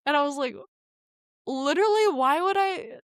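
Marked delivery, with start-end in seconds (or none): 1.5-3.0 indignant outburst. Real, not acted. Outrage at being distrusted.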